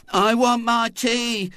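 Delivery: high, slow, doleful whine; doleful boy.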